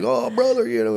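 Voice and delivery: imitated consoling. Others comforting him as he cries.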